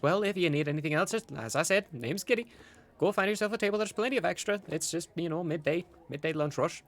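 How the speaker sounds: giddy host, high chatty lilt; Gideon. Acted. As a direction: usher guests to a table cheerfully.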